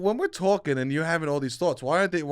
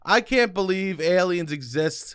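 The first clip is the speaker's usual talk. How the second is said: flat, unimpressed demo; 4 semitones higher, slower than usual. Shown as a demonstration. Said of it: "should only be said with the most believable things".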